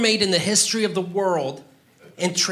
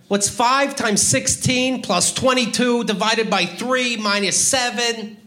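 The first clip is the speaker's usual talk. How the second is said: measured, slow recital of a sum; deliberate quizmaster delivery; quiz question; 3 semitones higher than usual. Acted. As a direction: read out the sum slowly, term by term. Quizzes as calculator challenge, counting down.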